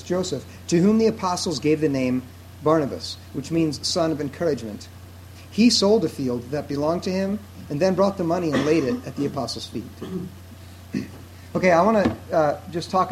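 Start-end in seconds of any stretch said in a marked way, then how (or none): 0.0-9.8 slow reading. Real, not acted. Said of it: "I'm gonna read it slowly".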